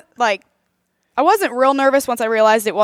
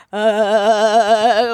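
bumpy road uh. Retold or imitated. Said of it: "literally doing that sound".

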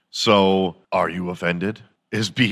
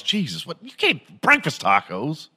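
appalled second reader; 6 semitones higher than usual. Acted. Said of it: "And the second guy goes".

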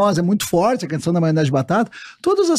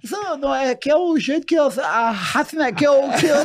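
higher, flustered stammer; Raciné; 6 semitones higher than usual. Acted. Stutterer explaining himself to the sergeant, stammering. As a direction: block and restart while explaining yourself. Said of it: "ele travava e acabava criando uma palavra".

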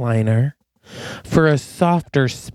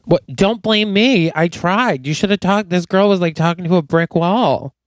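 higher-pitched defensive excuse; worked-up, whiny-high self-defence; defensive protest; 4 semitones higher than usual. Acted. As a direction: protest that you're not at fault. Acted quarrel over lost luggage.

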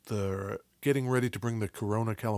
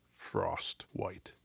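radio voice; 5 semitones lower, 9 dB quieter than usual. Pretend. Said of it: "say these in a radio voice".

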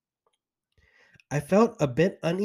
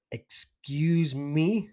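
exclaimed; much slower than usual. Retold or imitated. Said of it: "she exclaimed".

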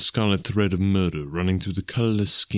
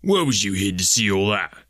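mildly alarmed, suspicious constable; startled constable's cry. A narrator's reading. Frightened constable challenges the detective, mild suspicious cry. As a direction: cry out in a lightly voiced working man's tone. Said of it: "he cried".

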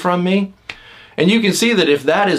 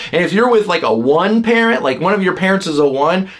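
ordinary delivery

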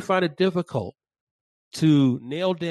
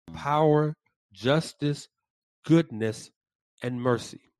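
slow, measured reading of a creed; solemn reading; slower than usual. Acted. Podcast host reading the Westminster Confession aloud, solemn and slow. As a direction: read it like a confession of faith, with pauses between the clauses.

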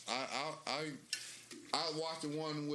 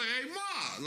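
put-on Boston accent; 9 semitones higher than usual. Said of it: "they say".

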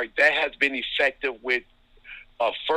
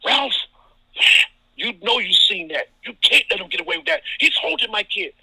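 high, loud protesting coach; fast, high-pitched coach pleading his case; coach yelling in your ear; 9 semitones higher, 6 dB louder than usual. Retold or imitated. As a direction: get in the ref's ear and complain hard. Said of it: "he'll say something like".

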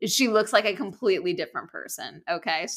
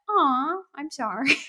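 drawn-out, higher-pitched aw of sympathy; sympathetic; 7 semitones higher than usual. Real, not acted. Podcast host answers a listener's pain flare-up, sympathetic. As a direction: coo your sympathy slowly.

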